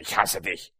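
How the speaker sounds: a low, hushed Ich hasse dich, said straight to someone; quiet, pointed hate line. Shown as a demonstration. Preacher demonstrates words spoken to a person, hushed and low. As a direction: drop the voice low and aim "hasse" at a listener. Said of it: "Wenn ich dir aber sage".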